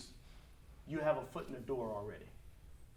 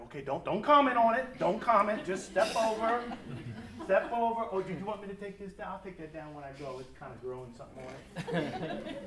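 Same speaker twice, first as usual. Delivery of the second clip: tiptoeing dad, louder; 3 semitones higher, 5 dB louder than usual. Retold or imitated. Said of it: "what I saw was like".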